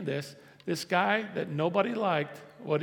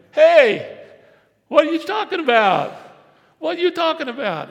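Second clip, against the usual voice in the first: much higher, loud Jesus calling out; hammed-up shout of disbelief; exasperated shout; 11 semitones higher, 13 dB louder than usual. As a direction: shout across the room in disbelief. Jesus answers the Pharisees.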